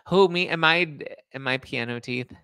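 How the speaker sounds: high, loud "who, me?"; mock offended surprise. Real, not acted. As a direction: act shocked at the insult. Reacting to a teasing comment.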